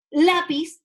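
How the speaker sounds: Lápiz with a strong LÁ; Lápiz, voice loaded on first syllable; stress on first syllable. Shown as a demonstration. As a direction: punch the LÁ in Lápiz. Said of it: "en esta sílaba".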